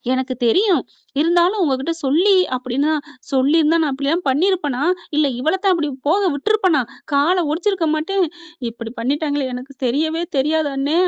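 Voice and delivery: acted-out pleading protest, loud; agitated protest. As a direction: insist you never knew, voice pushed up. Tearful woman protesting her innocence.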